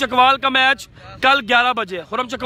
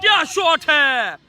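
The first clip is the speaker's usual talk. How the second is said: excited cricket commentary; 3 semitones higher than usual. Real, not acted. Six hit, live commentary.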